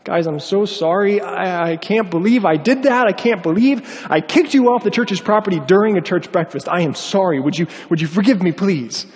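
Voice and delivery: mildly pleading retold apology; earnest plea with a touch of upset; tearful apology. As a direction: imitate a tearful man begging forgiveness. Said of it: "he's got tears streaming down his face".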